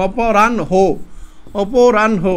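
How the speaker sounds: অপরাহ্ন said as "o-po-ran-ho" with a clear final "ho"; deliberate model reading of অপরাহ্ন; correct pronunciation demo. Shown as a demonstration. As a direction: sound out অপরাহ্ন carefully, ending on "ho". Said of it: "সঠিক উচ্চারণ".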